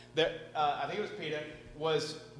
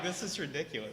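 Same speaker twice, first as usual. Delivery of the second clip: laughing disbelief; 6 dB quieter than usual. Retold or imitated. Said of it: "And I'm like".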